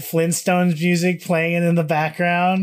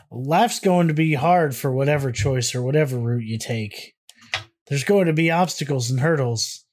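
put-on country accent. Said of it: "me giving him a silly country ass voice".

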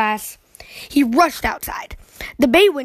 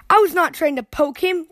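protesting; 5 semitones higher than usual. Acted. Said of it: "protested sister".

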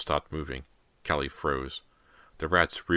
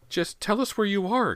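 very high desperate mother's cry; shriek; 4 dB louder than usual. A narrator's reading. Mother begs missing son to answer, shrieking. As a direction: shriek the demand at the top of your range. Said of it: "Callie's mother shrieked".

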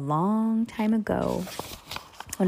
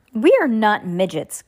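stern; 2 semitones higher, 3 dB louder than usual. Acted. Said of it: "Klaus said sternly".

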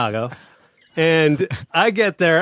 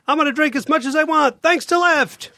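much higher, chirpy promo voice; mock cheery ad voice; 12 semitones higher than usual. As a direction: gush it like a cheesy commercial. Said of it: "and so then I'm like".

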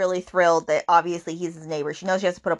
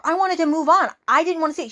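higher voice set apart from her own, mildly hurt; voicing Tate; 9 semitones higher, 3 dB louder than usual. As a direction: play the heroine higher, a little wounded. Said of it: "she goes".

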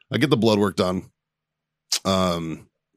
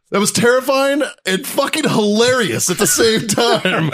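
slow, high, laughing through the words; can barely get it out for laughing; 13 semitones higher, 4 dB louder than usual. Real, not acted. Laughing while telling the story.

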